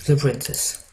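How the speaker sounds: English with a rough French accent; French-accented English, unpolished; shaky French accent. Real, not acted. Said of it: "mon accent un peu merdique".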